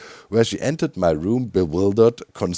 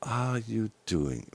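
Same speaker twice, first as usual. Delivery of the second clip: partner asking, softer and slow; 9 dB quieter, much slower than usual. Retold or imitated. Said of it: "Karen in the morning told me".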